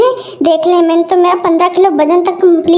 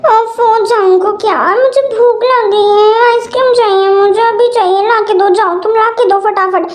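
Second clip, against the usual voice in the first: whiny demand; 3 semitones higher than usual. Acted. Pregnant craving demands.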